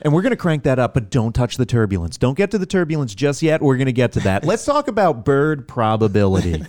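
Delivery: mock-earnest tutorial host; really into it. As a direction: play a game guide who takes it far too seriously. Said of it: "like, really, really into it".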